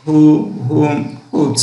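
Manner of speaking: who, whom, whose said as হু, হুম, হুজ with the h heard; h pronounced. Shown as a demonstration. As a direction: start হু, হুম, হুজ on a clear h. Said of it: "এইচ উচ্চারণ". (হু, হুম, হুজ, এইচ স্পষ্ট উচ্চারণ)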